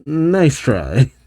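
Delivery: slow, dry sarcasm with a laugh slipping in; drawn-out mock-bored announcer; unenthusiastic speaker. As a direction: sound unimpressed by the entries. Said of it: "she's less than enthusiastic".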